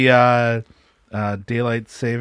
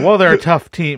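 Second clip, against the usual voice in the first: imitating his line; 5 semitones higher, 6 dB louder than usual. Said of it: "That was, that was his".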